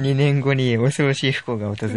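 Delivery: lightly voiced phony psychic prophecy; fortune teller. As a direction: foretell doom like a fake seer. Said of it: "インチキ占い師に乗っかるな".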